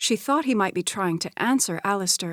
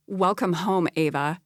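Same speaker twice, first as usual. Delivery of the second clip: sarcastic. Acted. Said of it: "she said sarcastically".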